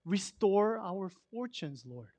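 slow plea. Retold or imitated. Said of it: "he actually says".

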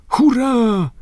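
high cheering shout; loud cheer. Acted. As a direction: crew cheering from the deck. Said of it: "rozległo się głośne".

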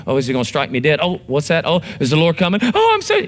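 mock the one cowering from God; mock fear. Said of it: "This doesn't mean".

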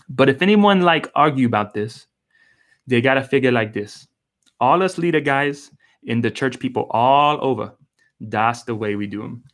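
reading the verse in a light, self-admitted poor Hawaiian Pidgin accent; a hint of Hawaiian Pidgin, lifted at the start. Shown as a demonstration. Pastor reads the Pidgin Bible verse to his church, in a mild Hawaiian Pidgin accent. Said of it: "I don't have a very good accent".

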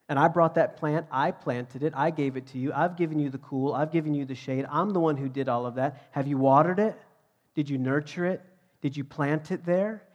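God confronting the prophet, voice building; forceful, mounting preacher's rebuke; impassioned reproach. Retold or imitated. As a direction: press each point harder, rising in pitch and volume. God confronting Jonah in retold dialogue.

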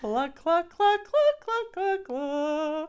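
loud high clucking; chicken clucks. Shown as a demonstration. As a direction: cluck like a hen. Animal sound warm-up.

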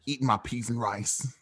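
put-on British street-slang accent. Friend playing a Brit for laughs, slangy British accent. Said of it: "take it across the pond".

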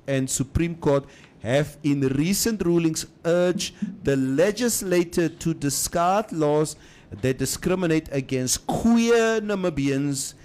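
news read. Acted. Reads news item on air.

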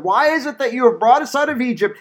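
high-pitched accusing question, read in imitation; complaining. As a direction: voice the people's complaint to their leader. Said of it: "the people complained against Moses".

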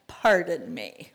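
a slow take with a laugh through Pardon. Acted. Gideon doubting God's call, slow laughing echo. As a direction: let the laugh spill into Pardon me.

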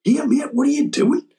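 high-pitched mock heckler interrupting; imitated heckler. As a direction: pipe up high, like a puzzled lad in the crowd. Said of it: "this lad just stands up".

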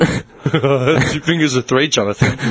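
slow flat machine voice; robot voice. Acted. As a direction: talk like a robot. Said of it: "In that robot voice?".

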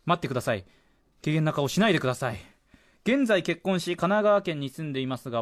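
presenter reading a listener's story aloud; radio letter reading. Acted. Radio host reads a listener's confession about TBS, letter-reading delivery. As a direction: read it out clearly, phrase by phrase.

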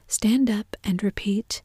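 bossy whispered command; ordering. Acted. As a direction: order her to stand. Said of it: "How the creatures order one about".

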